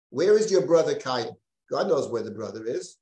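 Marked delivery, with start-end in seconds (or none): 0.1-1.4 a raised, mildly hostile question. Retold or imitated. God questions Cain knowing the answer, mildly hostile. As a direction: put the question as a mild challenge. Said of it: "almost always hostile questions".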